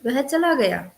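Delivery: a touch of surprise on "वह चला गया", stress on चला, falling; mild amazed "वह चला गया"; surprised. Shown as a demonstration. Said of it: "विस्मय में".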